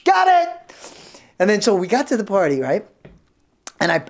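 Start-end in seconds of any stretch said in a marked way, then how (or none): 0.0-0.8 much higher small answering voice; muffled reply from trunk. Retold or imitated. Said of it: "he goes".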